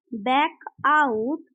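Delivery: slow repeat. Shown as a demonstration. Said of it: "बच निकलना होता है बैक आउट".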